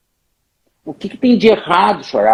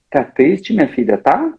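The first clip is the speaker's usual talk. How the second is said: a lower, gentle comforting mother; 3 semitones lower than usual. Retold or imitated. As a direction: soothe your sad little girl. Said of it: "tu diz assim".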